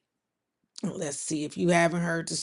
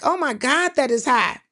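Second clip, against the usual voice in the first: retold shock; 6 semitones higher, 4 dB louder than usual. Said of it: "I was like".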